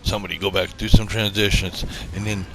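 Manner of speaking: loud, comic shouting for transitions; mock outburst. Host shouting at the editor for transitions, loud. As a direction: bellow it out like a flustered director.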